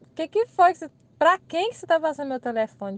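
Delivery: half-joking demand for an explanation; playful scolding. Retold or imitated. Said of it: "brigando assim comigo, meio brincando".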